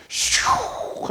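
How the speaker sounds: one drawn-out whoosh; imitated stone launch. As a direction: send the stone off with a long swish. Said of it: "하니까".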